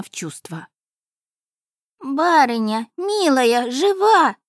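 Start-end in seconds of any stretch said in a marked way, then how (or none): 2.0-4.4 higher and louder, leaping up on жива; anxious joy. A narrator's reading. The house spirit rushes to the lady, overjoyed she lives. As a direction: cry out in hopeful relief.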